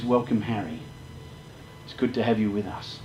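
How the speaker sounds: quiet, gentle greeting of a kind father; a hushed fatherly welcome; soft welcome. Retold or imitated. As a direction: welcome him softly. Father greeting the boy softly.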